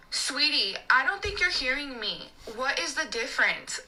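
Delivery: imitating a patronizing customer; condescending customer. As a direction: talk down to the server, word by word. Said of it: "she says that like that".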